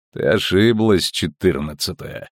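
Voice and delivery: mock her coldly; mocking metallic voice. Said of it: "проговорил насмешливый металлический голос". (насмешливый металлический голос)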